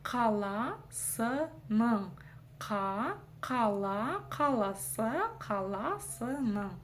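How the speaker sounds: «каласа» медленно, наращивая слог за слогом; собирай «кала с н» по кусочкам; разбор по слогам. Shown as a demonstration. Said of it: "Каждую из этих букв". («кала» с горловым «к», слоги раздельно)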